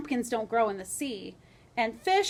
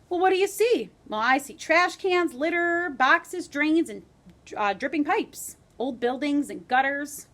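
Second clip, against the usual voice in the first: eager rat; 3 semitones higher, 4 dB louder than usual. Acted.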